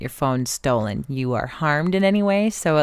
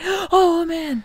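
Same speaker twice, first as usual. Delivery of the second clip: mock alarm; 12 semitones higher than usual. Mock dramatic gasp reaction.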